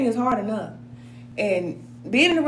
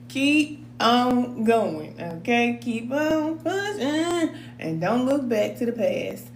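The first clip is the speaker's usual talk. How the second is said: slow encouragement; much slower than usual. Real, not acted. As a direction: ease them forward gently. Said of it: "encouraging class slowly".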